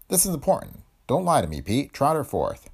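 tough private eye, demanding; noir detective. Acted. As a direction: lean on him like a hardboiled PI. Detective presses Pete.

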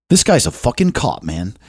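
understated accusing guy, dropping away on "man"; mock a suspicious stranger's accusation; imitated accusation. Angry-looking guest accusing the host of being a cop, imitated accusation. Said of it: "He said it exactly that way".

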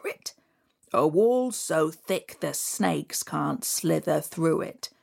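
slow, low mysterious stranger; menacing hooded stranger, hushed; low looming threat. Acted. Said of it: "But the stranger said".

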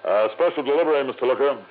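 disguised voice through the door; fake delivery man voice.

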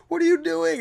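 high, exasperated; high and incredulous; exasperated question. Retold or imitated. Quoted self to camper.

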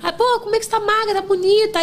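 lightly voiced cheerful acquaintance; imitating a cheery friend; mock bright compliment. Retold compliment from others.

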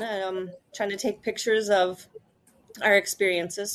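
choking on water while talking; choking on a drink. Real, not acted. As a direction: talk through a swallow of water. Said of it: "Sorry, I'm choking on some water".

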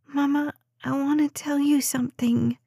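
put-on high, small child's voice; little girl voice. A narrator's reading. Child speaks to mother.

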